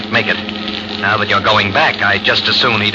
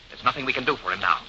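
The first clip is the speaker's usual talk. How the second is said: urgent hushed voice; 5 semitones higher, 5 dB quieter, faster than usual. Acted. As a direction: hiss the plan quietly.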